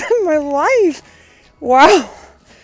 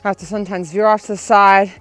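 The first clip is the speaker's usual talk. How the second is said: talking while running, loud; 6 dB louder than usual. Real, not acted. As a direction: speak mid-stride on a run. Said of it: "I literally cannot run any faster".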